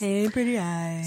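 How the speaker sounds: mock pickup line. Friend mocks the guy's pickup line.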